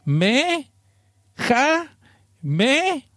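high, drawn-out syllables yelled like an anime attack; hammed-up anime attack call; mock anime battle cry. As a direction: shout each syllable up high like a cartoon fighter. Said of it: "se los juro, dice".

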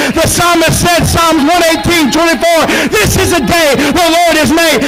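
rising preacher's cadence, building to a cry; fervent revival preaching. Acted. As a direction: preach it, climbing to full force.

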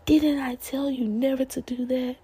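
lightly voiced threatening mom; mock scolding parent. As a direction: imitate a parent hissing threats in public. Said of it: "yelling at them in front of everybody".

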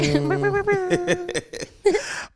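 a high-pitched giggling burst; high squealing laugh. Real, not acted. Host laughing at his own pew pew joke, high squealing laugh. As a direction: let a squeaky laugh run out.

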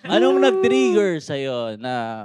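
mock talk-show host. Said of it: "pangbuyabunda ang puta".

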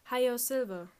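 loud, high "Hi-Yo Silver" like a DJ whoop; radio DJ call. Retold or imitated. Narrator mimicking the DJ, a loud high whoop. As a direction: belt it out like a cowboy radio host.

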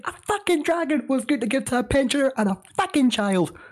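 rising into a high, heated rant; ranting in character. Acted. Player's character ranting to buddies, heated and rising. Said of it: "I'll do it in the state of".

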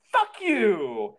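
parting yell as the door slams; angry shout. Retold or imitated. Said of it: "before I shut it, I go".

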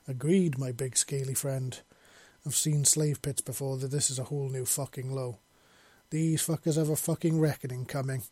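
mild angry growl at the captors; snarling. Acted. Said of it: "Fuller snarled".

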